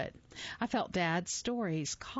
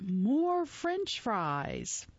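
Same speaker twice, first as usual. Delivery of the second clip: put-on childish shout; 5 semitones higher, much slower than usual. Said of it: "You'd shout".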